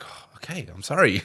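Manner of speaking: high sheepish sorry; sheepish apology. Retold or imitated. Son apologising to mum: high sheepish mock apology. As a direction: sound small and guilty. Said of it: "I was like".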